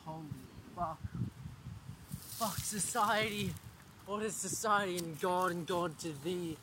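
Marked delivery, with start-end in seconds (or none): 2.4-6.6 rhyming recital. Pretend. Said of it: "that was all rhyming".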